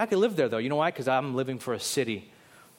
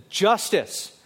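slow, high, forceful cry for justice; 7 semitones higher, 4 dB louder, much slower than usual. Acted. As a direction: cry out as the wronged victim, drawing the words out. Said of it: "What Abel's blood was crying out was this".

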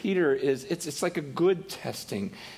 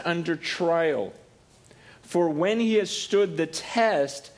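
reading scripture; slower than usual. Real, not acted. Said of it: "It says".

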